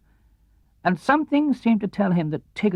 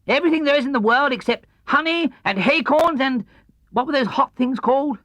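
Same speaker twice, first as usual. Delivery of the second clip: high, loud bouncy voice; bouncy Tigger; 10 semitones higher, 4 dB louder than usual. Acted. Tigger telling Christopher Robin he's hungry, high and bouncy. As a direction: bounce through the list.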